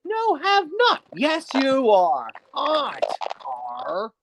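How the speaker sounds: lightly voiced menacing engine; Diesel 10 villain voice. Shown as a demonstration. Villain voice demo continues, mild menacing threat. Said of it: "my personal favorite, Diesel ten".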